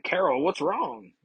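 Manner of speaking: wide-eyed concern. Acted. Beast sees Carol drop the tray, startled high slow concern. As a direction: ask it wide-eyed and alarmed. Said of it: "wide-eyed".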